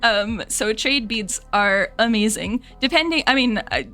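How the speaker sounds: relaxed Scottish accent, explaining fondly; easy conversational Scottish accent. Shown as a demonstration. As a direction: chat on in a Scottish lilt. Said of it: "I can bring it out a bit".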